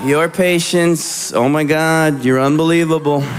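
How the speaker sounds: dutiful, rote apology like a pledge; mumbled pledge. Retold or imitated. Married friend apologizing to his wife like a child. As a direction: recite it like the Pledge of Allegiance. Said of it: "he's just like".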